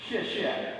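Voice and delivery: "xie xie" said as shyeh shyeh, breathy and light; careful demo of "xie xie" for a beginner; Chinese pronunciation. Shown as a demonstration. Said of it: "This is pronounced".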